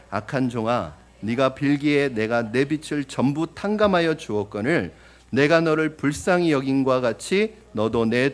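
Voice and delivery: loud, forceful proclaiming of the king's rebuke; scripture reading. Acted. Pastor reading the angry king's words aloud to the church, loud.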